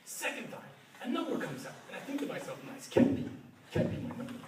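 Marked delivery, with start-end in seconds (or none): 2.7-4.3 breathy whisper to himself; hushed hope that it can't be; whispered inner thought. Retold or imitated. Inner thought during the draw.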